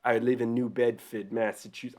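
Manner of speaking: shaky try at a Massachusetts accent; half-successful local Boston accent; attempted Boston accent. Shown as a demonstration. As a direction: say Bedford as "Bedfid", Boston style. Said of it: "I can't even do the accent".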